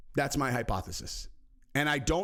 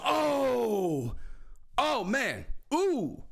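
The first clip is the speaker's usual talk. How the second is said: lightly voiced excited commentator; imitating excited Bisping; 7 semitones higher, much slower than usual. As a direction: mimic a commentator wowed by a strike. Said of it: "Bisping goes".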